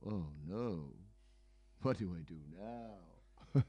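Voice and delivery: breathy whisper of dismay; hushed dismay. Retold or imitated. Young seeker handed hashish, whispering his helpless dismay. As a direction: whisper it, caught and tempted. Tempted by hashish, quoted self.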